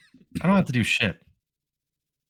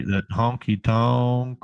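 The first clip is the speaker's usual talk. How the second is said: mock country twang; much slower than usual. Shown as a demonstration. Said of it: "You got that country".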